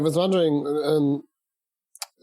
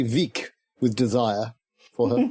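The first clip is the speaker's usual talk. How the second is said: swooning; 2 semitones lower, slower than usual. Pretend. Lovestruck exaggeration.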